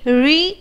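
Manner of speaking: "री" as a separate syllable with long ee; isolated "री", held on the ee vowel; syllable sounded out. Shown as a demonstration. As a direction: sound out "री" on its own. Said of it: "जैसे हम pronounce करेंगे".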